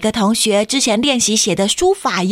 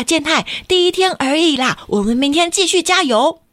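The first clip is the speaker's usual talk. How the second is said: encouraging; 7 semitones higher than usual. Acted. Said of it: "小春也说".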